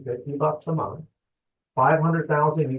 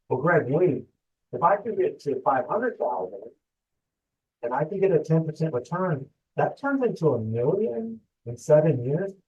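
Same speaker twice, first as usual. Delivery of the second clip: higher-pitched, disbelieving question; mock amazement; 4 semitones higher than usual. Listener checking a million in seven years, amazed. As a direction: play an amazed listener double-checking the claim.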